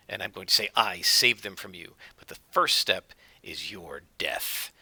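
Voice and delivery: low, quiet cult leader threat; lightly voiced zealot promising death; menacing villain. Cult leader threatening Wiglaf, low and quiet.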